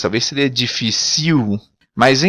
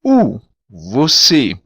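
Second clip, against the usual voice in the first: slow demo; 3 semitones lower, slower than usual. Shown as a demonstration. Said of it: "a palavra u".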